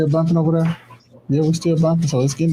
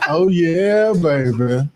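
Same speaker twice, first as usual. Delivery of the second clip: mock flirtatious admirer; much slower than usual. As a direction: play a smitten admirer, drawing out the words. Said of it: "he'd probably be like".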